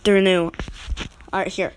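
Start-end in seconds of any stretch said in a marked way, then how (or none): 0.0-0.5 they're new said louder, falling; a louder, firmer second take; punchier retake. Shown as a demonstration. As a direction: say it again with more punch, louder. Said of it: "No, I'm gonna try the".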